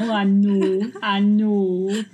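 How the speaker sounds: light Scottish accent imitating her son; a mild put-on Scottish lilt; little boy in a mild Scottish accent. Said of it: "He's got a Scottish accent now".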